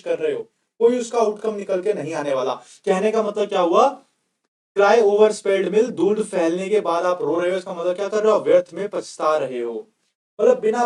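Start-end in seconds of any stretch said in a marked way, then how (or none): 4.8-5.9 very slow and louder, word by word; slow drill for repeating. Shown as a demonstration. Teacher leading the class to repeat aloud, slow and loud. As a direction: call it out slowly so the class echoes it. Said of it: "आप सारे मेरे साथ ही बोल रहे हो".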